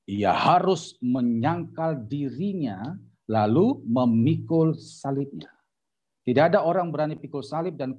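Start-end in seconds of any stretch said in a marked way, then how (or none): 0.1-5.5 very slow, word-by-word restatement of the verse; emphatic scripture repetition. Shown as a demonstration. Preacher repeats verse to congregation, slow emphatic teaching. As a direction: drive each word home, drawn out.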